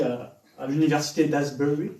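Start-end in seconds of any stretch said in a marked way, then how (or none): 1.3-1.9 English accent. Shown as a demonstration. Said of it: "vous allez m'excuser mon accent anglais".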